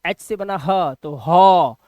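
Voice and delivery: एच से बना ह तो हॉ drawn out slowly; slow sounding out. Shown as a demonstration. Teacher slowly building हॉ from its letters. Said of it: "teacher sounding out हॉ".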